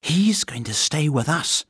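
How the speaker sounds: put-on high girlish announcement; announcing girl. A narrator's reading. Girl telling the housekeeper the bear stays, announcing. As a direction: announce it brightly as a child would. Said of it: "announced Judy".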